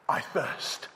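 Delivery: voiceless, drained whisper of thirst; breathy whisper. Acted. Jesus on the cross breathing his thirst, whispered. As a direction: barely breathe the words out.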